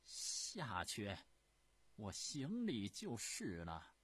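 a touch of grudging anger, slow; through gritted teeth. Acted. Empress dowager conceding to Yan Xun, slow and grudging. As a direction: grind out the surrender. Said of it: "咬牙切齿地说".

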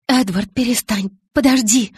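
ordinary delivery, nothing marked

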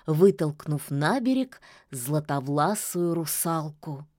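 plain reading voice

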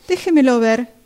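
loud, slow call across the shop. Acted. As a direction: stretch it out loud so the customer hears from afar. Shopgirl calling across the store. (llamando en voz alta y lenta a la clienta)

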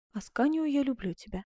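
high, gentle declaration of love; loving note. Acted. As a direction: read the love note tenderly.

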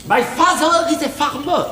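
put-on proud schoolboy English accent. Boss practising his Harvard English, in an English accent. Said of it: "Je progresse, mon accent".

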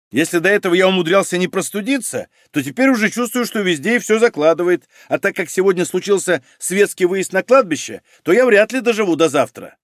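high-pitched, self-pitying whiny character voice; complaining criminalist, aggrieved. Acted. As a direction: moan about your failing health. (жалобно брюзжащий криминалист)

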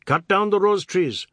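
high, loud furious order; shouting. A narrator's reading. Biswas smashing up his house, shouting. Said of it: "Mister Biswas was shouting".

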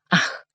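quiet, weary breathy "ah"; soft sigh. A narrator's reading. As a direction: let out a tired sigh. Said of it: "вздохнул Сен-Люк".

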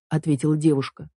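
usual speaking voice

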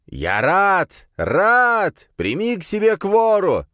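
very high fanatical cries; crazed shrieking. A narrator's reading. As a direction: shriek in mad ecstasy. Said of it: "заверещал худощавый мужик, безумно выпучив глаза". (безумные высокие выкрики фанатика)

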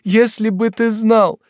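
second take, stretching знал; tearful repeat. Acted. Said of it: "заливаясь слезами, воскликнула".

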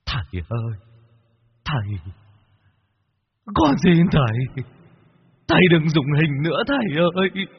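tearful begging. Acted. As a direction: beg for mercy through tears. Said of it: "chắp tay mà khóc".

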